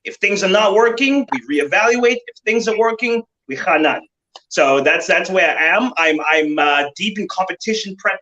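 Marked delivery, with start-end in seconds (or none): 3.5-4.0 Afrikaans phrase. Real, not acted. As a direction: drop in a bit of Afrikaans. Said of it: "threw down some Afrikaans there".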